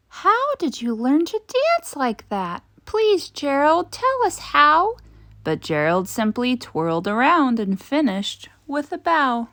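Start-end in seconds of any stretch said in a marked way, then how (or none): 0.1-5.0 eager pleading. A narrator's reading. Animals begging Gerald.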